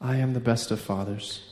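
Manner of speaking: soft, low, tender assurance; gentle God voice. Retold or imitated. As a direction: voice a loving Father quietly. God speaks tenderly to the dad.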